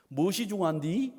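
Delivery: imitated Chungcheong accent, rising question; Chungcheong dialect. Pastor quotes a film line to congregation, Chungcheong accent. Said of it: "충청도 사투리죠".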